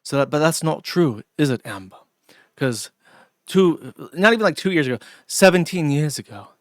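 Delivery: mock serious Scottish commentator, half-hearted; a hint of a dour Scottish accent. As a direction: lightly imitate a Scot scolding Amberlynn. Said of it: "he's like, Scottish accent".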